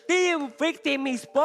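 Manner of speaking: fighting game announcer. Real, not acted. Drawn-out caster call.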